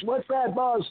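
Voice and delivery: very high-pitched eager voice; Coco. Retold or imitated. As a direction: imitate an eager underling way up high. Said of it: "in that high pitch".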